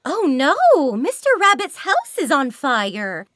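concerned but never scary for little ones; mild kid-game alarm. Shown as a demonstration. Game voice telling children the rabbit's house burns, mild worry. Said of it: "So I wasn't smiling".

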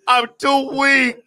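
slow, feeble Emperor voice; mock dying Sith lord; weak Palpatine. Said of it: "I'm over here like Palpatine".

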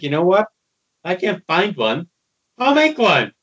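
building to a crazed decision; manic resolve. Acted. Twilight deciding to make her own problem, building mania.

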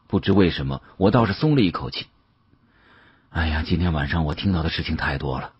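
ordinary delivery

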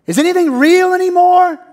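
a lost soul calling out; despairing cry. Retold or imitated. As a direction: cry out in confusion. Voicing a despairing listener.

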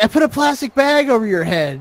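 imitating the woman. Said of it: "she's like".

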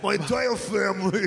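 copying the guest's Staten Island vowels, lightly; mock Staten Island accent. Host teasingly repeating the guest in a Staten Island accent. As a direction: echo his Staten Island accent with a laugh. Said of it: "I could just repeat after you".

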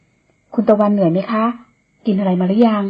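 put-on slow, gentle old nanny asking; caring question. Old nanny asks the tired young woman, caring. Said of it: "ถามด้วยความห่วงใย".

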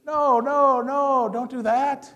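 loud, high protest; high, loud, drawn-out correction; emphatic objection. Shown as a demonstration. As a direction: cry out to stop the mistake. Coach calls out against the mistake.

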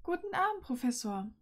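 cool, clipped goodbye with a high start; coldly polite "Guten Abend"; icy farewell. Acted. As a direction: say goodnight with frosty politeness. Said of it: "mit unterkühlter Stimme".

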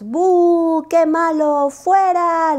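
gritos agudos y fuertes de público; abuchéale sin piedad; abucheo. Acted. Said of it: "le gritaban sus amigos". (el público abuchea a Lupo gritando)

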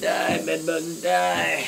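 shouted, high playful taunt; mock battle cry. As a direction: yell it at the bugs like a villain. Spraying bugs, playful battle cry.

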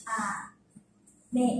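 "Ame" broken into two soft syllables, low then high; syllable-by-syllable rising "Ame"; slow low-to-high accent. Shown as a demonstration. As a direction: draw out "Ame", stepping up. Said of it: "mình sẽ ngược lại".

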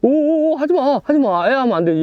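high, loud startled yelps; urgent high-pitched "no, don't"; alarmed pleading. Real, not acted. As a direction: beg it to stop in real alarm. Catch thrashes, he begs it stop.

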